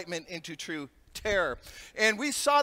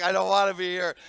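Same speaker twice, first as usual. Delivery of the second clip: fearful; 2 semitones lower, 4 dB louder than usual. Retold or imitated. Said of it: "Talking about trauma".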